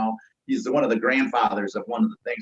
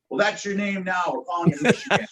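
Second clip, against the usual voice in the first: higher-pitched, lightly imitated old chief; old battalion chief; 7 semitones higher than usual. Old chief nicknaming the rookie, lightly imitated. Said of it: "old battalion chief, this old guy".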